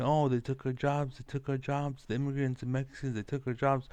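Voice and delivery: sneering impression of people griping about jobs; mocking complainers. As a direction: mimic the griping crowd. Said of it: "They keep saying".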